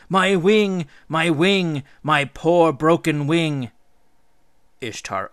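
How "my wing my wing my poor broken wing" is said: louder, higher mock lament; mock weeping. Gilgamesh mimicking the wronged bird, mock weeping. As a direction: imitate a pitiful wounded bird. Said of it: "he sits on a branch and weeps".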